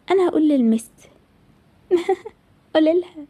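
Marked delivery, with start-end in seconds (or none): 1.9-3.3 mocking laugh. Bully mocks threat to tell.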